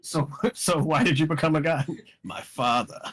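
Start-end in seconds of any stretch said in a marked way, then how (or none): 2.2-3.0 cartoon villain voice. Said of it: "You sound like a fucking cartoon character".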